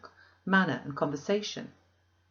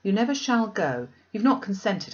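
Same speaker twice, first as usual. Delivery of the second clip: alarmed protest; 4 semitones higher, 4 dB louder than usual. Acted. Diana protesting Jane going.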